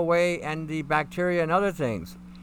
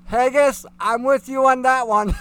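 louder, higher words through laughter; laughing; 7 semitones higher, 8 dB louder than usual. Real, not acted. Host agreeing with chatter Haggis, laughing. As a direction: shout it out while still laughing. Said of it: "Reason why I'm laughing".

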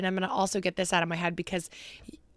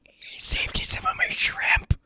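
put-on very high, tiny old lady squeak; drawn-out, weird little granny voice; Grammy McKenzie; 8 dB louder, slower than usual. Co-host jokingly quotes her late great-grandmother about shrimp, high old-lady imitation. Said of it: "This is her imitating our great-grandmother".

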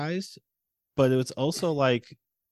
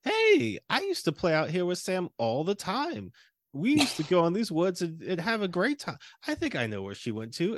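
mock cheerful dad line; 5 semitones higher than usual. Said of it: "he's like".

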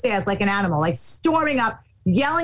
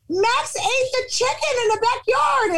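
put-on high, panicked little girl voice; daughter's voice; 12 semitones higher than usual. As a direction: mimic the child blurting bad news. Daughter's panicked report quoted.

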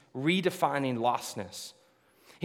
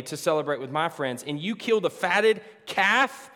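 rising resentful complaint; 3 dB louder than usual. Retold or imitated. Elder son complaining louder to his father, resentful.

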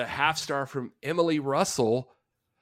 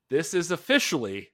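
hammed-up outrage; 5 semitones higher, 8 dB louder than usual. Reading out an angry review title, hammed-up outraged shout. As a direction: build to a loud, drawn-out shout.

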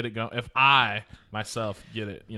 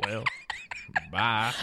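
Curly Bill; 4 dB quieter than usual. Retold or imitated. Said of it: "when Curly Bill was like".

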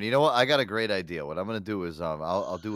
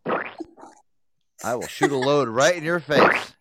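angry shouting; 7 dB louder than usual. Pretend. Staged domestic fight over phone.

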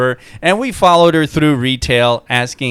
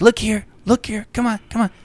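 put-on high, coaxing voice calling a baby; coaxing dad; 9 semitones higher, faster than usual. Gangbanger dad coaxing his baby for a photo, high and sweet. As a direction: coax the kid to look up. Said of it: "He's like".

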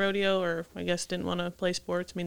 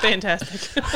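laughing; 5 dB louder, much slower than usual. Real, not acted. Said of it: "trying the word".

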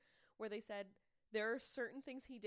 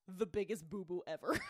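loud, punched note-reading; all-caps emphasis; 3 semitones lower, 5 dB louder than usual. Retold or imitated. Podcaster reading her all-caps notes, emphatic. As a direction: read it out in capital letters, loud. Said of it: "in all caps".

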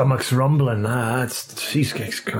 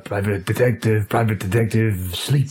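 hypnotist voice. Retold or imitated. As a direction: parrot it back in a hypnotic drone. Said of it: "you sounded like a hypnotist there".

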